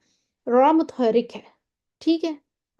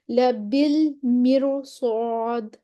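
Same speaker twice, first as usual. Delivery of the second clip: tajweed recitation; much slower than usual. Shown as a demonstration. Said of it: "موٹا ہی پڑھیں گے".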